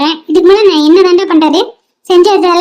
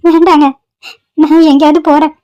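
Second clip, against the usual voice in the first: tearful refusal. Acted. Homeless woman declines a man's shelter, tearful. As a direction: turn down the offer through tears.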